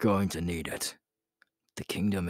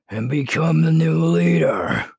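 much higher and louder, crowing the claim; triumphant shout; 10 semitones higher, 10 dB louder than usual. Acted. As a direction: shout your crown to the sky. Leader's triumphant boast.

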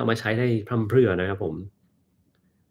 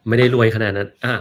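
laughing denial; 6 dB louder than usual. Real, not acted. Laughs off being called rich.

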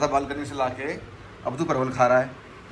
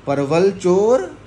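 mock scolding; 5 dB louder, much slower than usual. Real, not acted. Calling dog a thief.

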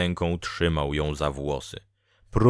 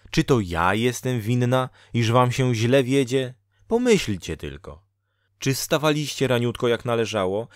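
lightly voiced scolding woman; Dola, reproachful fate-woman; 2 semitones higher than usual. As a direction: reproach him point by point, slightly raised. (lekko podniesiony, pełen wyrzutu głos Doli)

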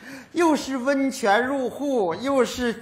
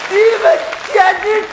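angry sputter; 8 semitones higher, 7 dB louder than usual. Acted. Father chokes mid-rant.

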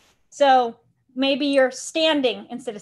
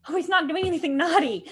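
laughing; 4 semitones higher than usual. Retold or imitated. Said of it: "we don't remember to tell them".

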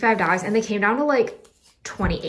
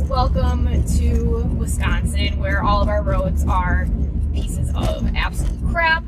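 talking while the car shakes; on a bumpy road. Real, not acted. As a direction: voice jolted by bumps. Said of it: "so sorry for the bumpy roads".

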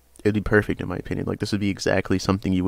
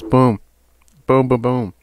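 excited shout; 3 semitones higher, 6 dB louder, slower than usual. Real, not acted. Hyping a card's combo.

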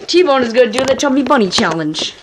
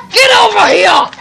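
calling out; 7 semitones higher, 4 dB louder than usual. Real, not acted. Calling the dog over.

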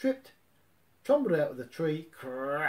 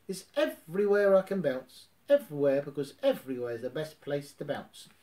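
louder, bouncy boast; bouncy Tigger; 5 dB louder than usual. Acted. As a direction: brag like you can't sit still.

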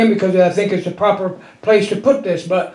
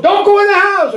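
retold warning; 9 semitones higher than usual. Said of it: "they told us".

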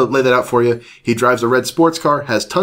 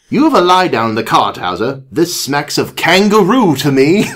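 slightly higher storybook British voice; British doctor; 5 semitones higher, 3 dB louder than usual. Acted. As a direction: pronounce it like a British sleuth. British doctor pronounces his theory.

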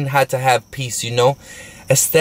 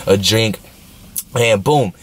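ordinary talk, nothing marked

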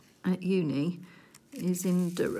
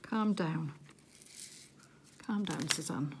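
self-soothing; 3 semitones lower, 6 dB quieter than usual. Real, not acted. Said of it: "Suzanne's a bit too excited".

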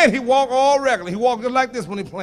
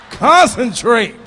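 slow command; 5 dB louder, much slower than usual. Pretend. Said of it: "demoing coaching the audience".

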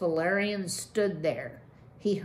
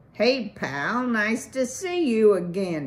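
brash, loud beaver greeting, pitched up; cried out; 4 semitones higher, 6 dB louder than usual. A narrator's reading. Mister Candid greets Valerian from the pond, loud hearty cry. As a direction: bellow a hearty hello from the water. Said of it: "he cried out".

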